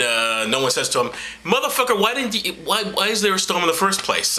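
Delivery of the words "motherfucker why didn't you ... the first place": mock outrage. Imagined disciple scolding Jesus.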